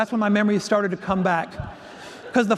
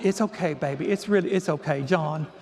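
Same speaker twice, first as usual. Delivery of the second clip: lower, gently soothing retold voice; calming reassurance; 4 semitones lower than usual. Mentor calming new teacher after a meltdown, soothing. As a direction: soothe a flustered colleague. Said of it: "she calmed me down".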